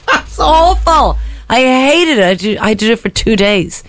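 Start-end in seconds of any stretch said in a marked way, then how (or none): 0.1-2.2 laughing. Real, not acted. Laughing at own embarrassment.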